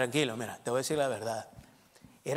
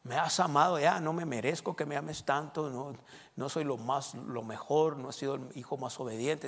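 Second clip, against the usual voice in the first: humble worshipper; 5 dB quieter than usual. Retold or imitated.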